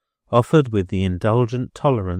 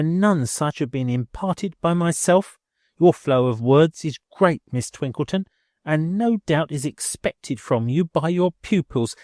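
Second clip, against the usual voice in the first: higher, huffy landlady voice; indignant landlady; 6 semitones higher than usual. A narrator's reading. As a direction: rebuke her with prickly dignity. Billiken rebukes Miss Twinkleton.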